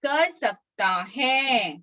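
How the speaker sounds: slow, stretched words settling at the end; slowly, for repeating. Shown as a demonstration. Teacher leads children repeating the memory verse, slowly. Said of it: "मैं धीरे धीरे बोलूंगी".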